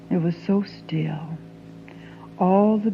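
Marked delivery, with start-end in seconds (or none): 0.1-1.4 breathy hush; a hushed whisper. Acted. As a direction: whisper it as if the night could hear. Hushed memory of stillness.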